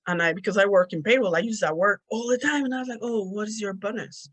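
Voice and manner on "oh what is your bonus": "bonus" with a short Spanish O in a casual question; old short O. Retold or imitated. Payroll worker asking with her old accent, short-O bonus. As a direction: ask it keeping the O in "bonus" short. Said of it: "I used to say, like, bonus".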